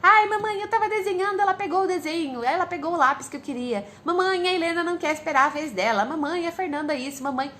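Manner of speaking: imitating a daughter running to mom with complaints; whiny child. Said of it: "quando elas ficam vindo me trazer briguinhas".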